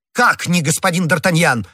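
mildly cried-out disbelief; crying out in turn. A narrator's reading. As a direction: demand it back in astonishment. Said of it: "в свою очередь закричал комиссар".

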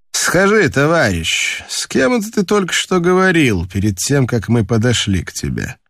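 high-pitched probing question, easing down; sailor's pointed, suspicious inquiry. Acted. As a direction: question him as if catching him out.

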